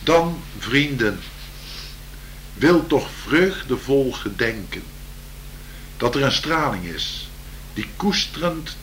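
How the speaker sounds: slow, lilting poem reading; poem recital. Acted. Improvised poem recital continues.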